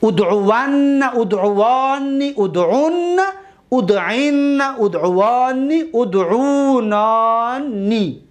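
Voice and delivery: slow chant of all six forms; teacher reviewing conjugation; recited paradigm. Shown as a demonstration. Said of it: "یک بار دیگر یک جای بگیم".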